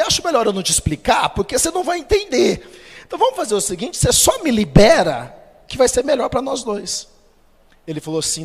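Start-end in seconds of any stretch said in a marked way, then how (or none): 0.0-7.1 high, light half-laughing reply; evasive plea. Retold or imitated. Employee dodging his boss's question, high and laughing. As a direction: dodge the question with a nervous laugh. Telling boss he won't understand.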